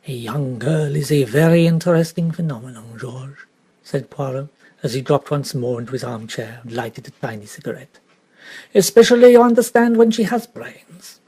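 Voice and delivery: lightly voiced Belgian detective; a hint of a courteous French-accented detective; Poirot voice. Poirot muses to George.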